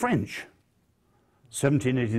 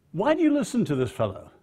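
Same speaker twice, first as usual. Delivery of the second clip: quick, higher mock American accent of a friend; mimicking Tony Campolo's American accent; 8 semitones higher, faster than usual. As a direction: tease in his friend's American accent, brisk and high. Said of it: "I can't for a moment mimic his accent".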